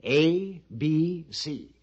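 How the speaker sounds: separate, measured "A", "B", "C", falling away; spelled out simply. Acted. Pliny explaining simply to the captain, spelled out. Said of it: "let me put it simply".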